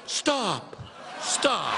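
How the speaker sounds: imitated falling plea to halt; mock yell. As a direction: put a stop to it, without real shouting. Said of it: "They yell".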